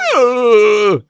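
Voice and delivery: high loud yelp; loud anime yell. Shown as a demonstration. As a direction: blurt out a manic shout. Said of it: "what's that response you had".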